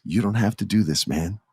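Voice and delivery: softly pleading with a friend; sweet and small. Retold or imitated. Sami pleading with his best friend, soft tender plea. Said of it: "I'm acting this the best I can".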